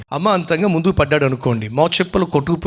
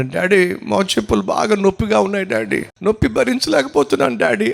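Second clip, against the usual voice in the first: imitating crying son; 5 semitones higher than usual. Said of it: "ఏడుస్తూ ఏమంటున్నాడు".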